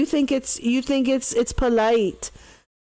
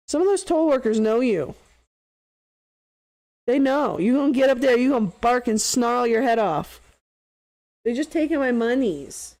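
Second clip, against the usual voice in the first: raised, mocking scold; teasing the dog; 3 semitones higher than usual. Real, not acted. Streamer teases his barking dog, mock scolding. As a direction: taunt the dog, playfully.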